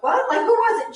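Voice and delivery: high, loud startled question; urgent, alarmed demand; shocked disbelief. Retold or imitated. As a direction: relive the shock, voice shooting up. Family's shocked reaction retold.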